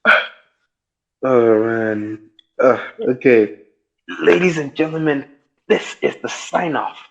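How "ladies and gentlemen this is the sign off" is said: high-pitched announcer sign-off; mock announcer. Host signing off to podcast listeners, mock announcer.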